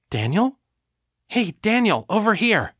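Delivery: a playful woman's voice hailing him; high, bright call for his attention. Acted. Sasha's telepathic voice calling out.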